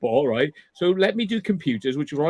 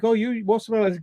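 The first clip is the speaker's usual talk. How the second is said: concerned adults; 5 semitones higher than usual. Retold or imitated. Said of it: "And they were like".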